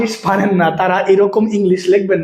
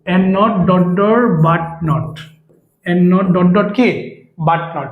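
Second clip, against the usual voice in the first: drawn-out dictation; 2 semitones lower, much slower than usual. Shown as a demonstration. Teacher reading out the rule for students to copy, very slow. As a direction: stretch every word very slowly for note-taking.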